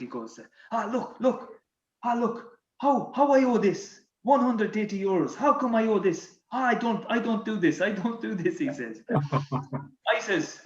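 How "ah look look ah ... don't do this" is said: higher-pitched mock French protest; French accent. French teammate protests a toll bill, indignant French accent. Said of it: "with his French accent".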